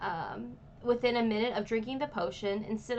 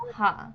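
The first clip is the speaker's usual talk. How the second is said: short, louder "huh" grunt; acknowledging "huh"; 6 dB louder than usual. Retold or imitated. Friend imitating the dad noticing his child, acknowledging huh. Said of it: "like a acknowledgement".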